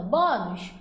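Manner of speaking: "bônus" as a mild pretend shout, first syllable leading; demonstrative, restrained mock shout on "bônus"; mock calling out. Shown as a demonstration. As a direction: call out "bônus" half-heartedly to find the strong syllable. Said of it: "como se estivesse gritando".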